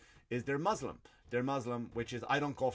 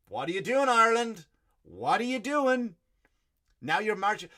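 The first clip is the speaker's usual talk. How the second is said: exasperated yell; 9 semitones higher, 8 dB louder than usual. Acted. Comic calling Ireland out, yelling in disbelief. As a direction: shout it out in outrage, with the last one slowed right down.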